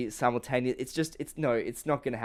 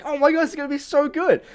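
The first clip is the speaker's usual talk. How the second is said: much higher, louder giddy gush; imitating friend's excitement; 13 semitones higher, 6 dB louder than usual. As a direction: mimic a friend squealing over a trailer. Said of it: "He's like".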